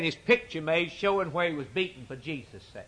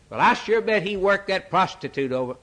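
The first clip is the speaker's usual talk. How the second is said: cocksure guesser; 4 semitones higher than usual. Acted. Voices a confident mistaken guesser.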